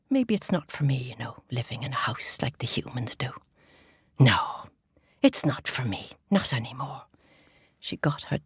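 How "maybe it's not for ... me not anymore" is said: resigned rabbit. Acted. Missus Rabbit rejecting house life, low resignation. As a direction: think it over and give up gently. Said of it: "she said".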